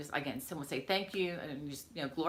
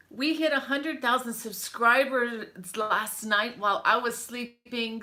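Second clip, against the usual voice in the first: excited announcement; 5 semitones higher, 6 dB louder than usual. Real, not acted. Announcing a hundred thousand subscribers.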